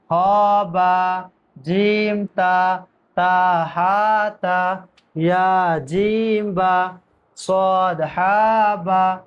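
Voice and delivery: drawn-out spelling of each letter; slow teacher recitation of letter names; slow letter drill. Shown as a demonstration. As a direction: chant the letter names slowly for pupils to repeat.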